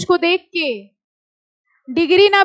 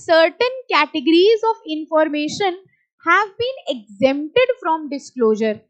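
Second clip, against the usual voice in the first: slow, deliberate read of the text; slow reading aloud; much slower than usual. Shown as a demonstration. Teacher reading the act aloud slowly. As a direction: read it word by word. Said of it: "reading the text aloud".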